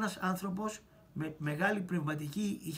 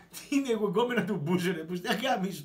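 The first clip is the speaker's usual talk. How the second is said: louder indignant snap; mock angry retort; 4 dB louder than usual. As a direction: throw back the insult. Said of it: "το λέω, μαλάκα". (αγανακτισμένη απάντηση)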